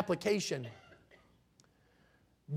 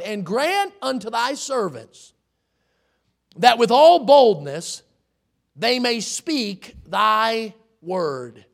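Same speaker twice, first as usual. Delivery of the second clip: dramatic scripture reading; 5 dB louder, slower than usual. Acted. Preacher reads scripture aloud.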